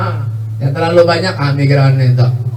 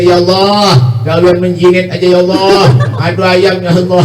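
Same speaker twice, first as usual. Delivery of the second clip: mildly acted plea on a steady chanting tone; tearful pleading. Preacher voicing the dead begging God from the grave, mildly tearful. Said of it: "Mereka nangis".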